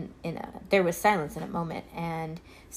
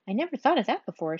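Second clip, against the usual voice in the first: pleased surprise; 5 semitones higher, faster than usual. Acted. Alice pleased.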